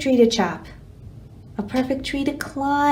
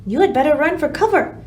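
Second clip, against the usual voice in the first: urgent spider; 4 semitones higher, 4 dB louder, faster than usual. Acted. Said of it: "said the spider".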